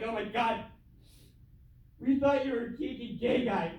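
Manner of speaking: shouting parent's disgusted verdict; mock parents' shout. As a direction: yell it like a let-down parent. Parents' voice acted out.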